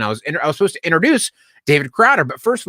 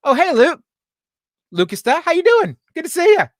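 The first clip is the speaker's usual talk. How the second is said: high, friendly retold greeting; mock-chirpy, welcoming greeting; very nice; 14 semitones higher, 3 dB louder than usual. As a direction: imitate a cheery hello, pitched way up. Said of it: "he was very nice about it".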